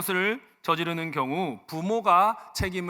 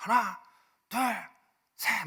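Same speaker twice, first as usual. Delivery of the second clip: higher, shouted drill-recruit cadence. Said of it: "크게 외쳐야 되는 거예요".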